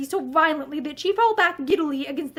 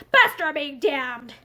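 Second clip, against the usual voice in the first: violent outburst; slower than usual. Acted. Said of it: "he added violently".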